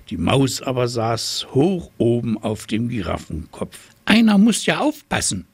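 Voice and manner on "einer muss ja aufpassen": very high, fast, louder squeak; squeaky mouse. A narrator's reading. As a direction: squeak it out bossily like a tiny mouse. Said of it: "fiepte sie".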